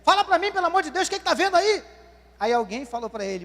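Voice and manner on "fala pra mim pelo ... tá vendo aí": higher, pleading voice of a blind beggar; desperate blind man. Retold or imitated. Blind Bartimeu begging bystanders, high and pleading. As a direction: beg the crowd to tell you what's happening.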